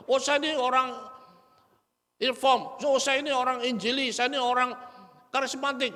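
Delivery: a proud churchgoer claims his camp; proud faction member. Retold or imitated. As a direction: boast about your church label.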